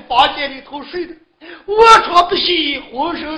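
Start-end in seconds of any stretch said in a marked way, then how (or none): 1.7-2.8 loud, tearful cry; crying outburst. Acted. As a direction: cry it out in grief. Describes injured wife.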